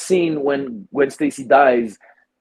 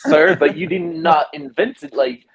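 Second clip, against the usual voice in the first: indignant rant; 4 semitones higher than usual. Retold or imitated. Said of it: "I was like".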